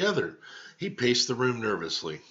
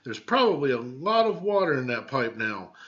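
put-on high, slowing, ominous child's voice; dramatic little girl; 4 semitones higher, 4 dB louder than usual. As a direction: build the suspense like a kid at a campfire. Elaine dramatising danger.

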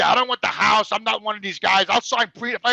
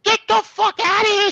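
high-pitched mock yell of an angry wife; retold yell, pitched well up; imitated yell; 10 semitones higher, 4 dB louder than usual. Wife ordering her husband away from the door, imitated yelling. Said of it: "She's yelling at me".

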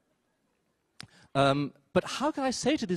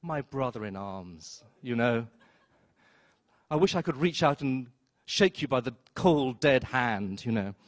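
mock solemn greeting; 2 semitones lower, slower than usual. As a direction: intone it like a solemn oath. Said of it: "I just said to him".

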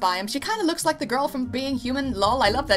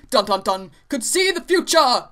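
mock dramatic; 5 dB louder than usual. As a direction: play the big reveal for laughs.

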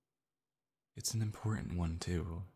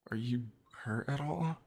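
worried; 4 semitones higher than usual. Acted. Checking on crying partner.

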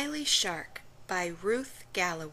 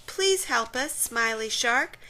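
higher, urgent plea for help; pleading cry; 4 semitones higher, 6 dB louder than usual. Acted. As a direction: beg the shark to save them. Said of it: "cried the fish".

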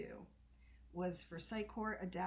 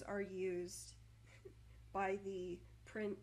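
stuttering. Real, not acted. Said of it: "I'm unraveling".

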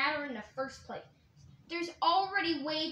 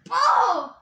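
loud high laughing shout; high laughing cry; laughing yelp; 7 semitones higher, 12 dB louder than usual. Pretend. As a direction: yelp with a laugh when hit. Hit character yelps, laughing.

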